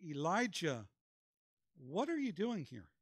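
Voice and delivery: small, still voice. Retold or imitated. The Lord gently questioning discouraged Elijah in his cave, softly. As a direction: gently ask it, as a loving father would. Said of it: "lovingly says in that small, still voice".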